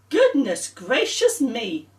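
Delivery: slow, amazed exclamation; gasped. Acted. Paul amazed by Claire's story, gasping. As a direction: gasp it out in wonder. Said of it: "gasped Paul".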